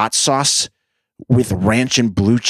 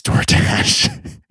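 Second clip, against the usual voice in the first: laughing. Real, not acted. Mock addressing DoorDash.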